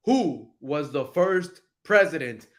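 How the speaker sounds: slow test question. Shown as a demonstration. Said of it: "ya les enseñé que first es primero".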